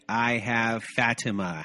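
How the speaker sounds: Fatima said slowly with a light Spanish accent. Shown as a demonstration. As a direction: try a Spanish Fatima, slow and careful. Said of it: "was my Spanish accent on that one".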